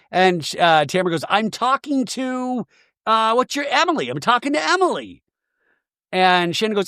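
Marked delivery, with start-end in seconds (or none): 1.3-5.2 high, halting put-on irritation; imitating a high-pitched telling-off; mock irritation. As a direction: correct them in a raised, exasperated voice. Acting Tamara snapping at Shannon.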